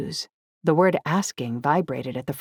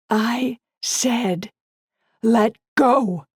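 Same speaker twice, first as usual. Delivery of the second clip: higher, louder furious yell; 7 semitones higher, 4 dB louder, much slower than usual. Acted. Woman yelling at boyfriend to release her, loud. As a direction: yell it at him, fire rising. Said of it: "As I yelled the word go".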